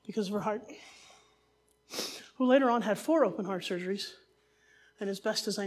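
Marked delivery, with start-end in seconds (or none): 0.1-0.6 whispered. Real, not acted. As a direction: whisper it softly, the sad detail. Hushed detail about sick baby.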